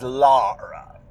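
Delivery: lightly voiced old witch; Holcomb. Author quoting how the witch says the girl's name, a touch of witch voice. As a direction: draw the name out as if it had an extra syllable. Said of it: "She always says".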